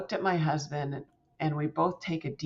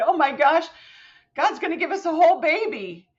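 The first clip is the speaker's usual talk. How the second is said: thrilled; 11 semitones higher, 6 dB louder than usual. Retold or imitated. Thrilled outburst to husband.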